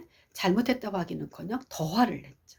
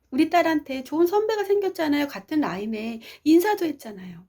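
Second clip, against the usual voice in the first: higher, lightly voiced happy mother; pleased mother; 8 semitones higher than usual. Mother glad her daughter met a good senior, pleased. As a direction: sound pleased for your daughter. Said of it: "엄마 기분이 좋았어요".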